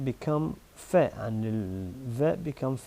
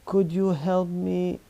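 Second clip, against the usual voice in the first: polite request; 5 semitones higher than usual. Shown as a demonstration. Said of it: "is much better".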